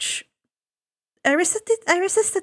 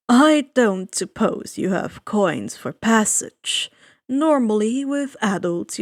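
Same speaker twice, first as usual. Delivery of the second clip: suave ferryman. Acted. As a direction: savor each word like a sly host. Charon explains fees.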